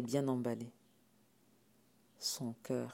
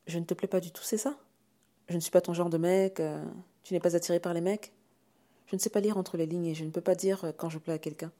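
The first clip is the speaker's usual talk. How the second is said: higher, raised voice of a rejected suitor; insecure questioning; 4 semitones higher, 5 dB louder than usual. Acted. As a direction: press for an answer awkwardly. Rejected Jacques checks awkwardly. (questions maladroites, voix plus aiguë)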